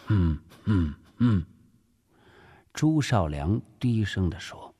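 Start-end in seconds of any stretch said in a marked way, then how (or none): 0.1-1.4 three low, separate cold-laugh grunts; imitated cold laugh. Director demonstrating the leader's reaction, imitated cold laugh. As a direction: mimic three curt cold chuckles. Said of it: "冷笑了三声".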